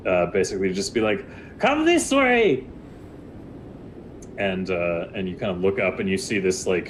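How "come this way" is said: much higher, slow, loud call from above; sharp-toothed figure calling. Acted. Hooded figure on a rooftop calling to the party, high and slow. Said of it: "a voice from up on high".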